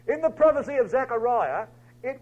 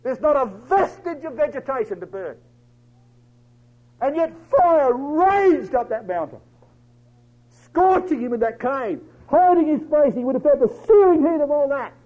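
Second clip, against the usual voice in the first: raised, loud, blazing sermon delivery; full-force preaching; 6 semitones higher, 5 dB louder than usual. Acted. Preacher telling of fire scorching Elijah's cave, full-force preaching. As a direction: drive the raging fire up the mountain.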